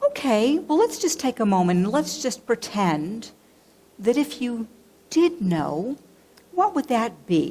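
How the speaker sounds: put-on tender, careful, very gentle coaxing voice. Retelling what the minister said when she could not speak: imitating a gentle tone. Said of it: "very gently said".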